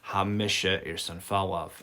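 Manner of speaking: "misha" clearly set out, evenly pitched; emphatic form. Shown as a demonstration. Teacher shows how they emphasise wanting to leave, emphatic "misha". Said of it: "That's how they emphasise".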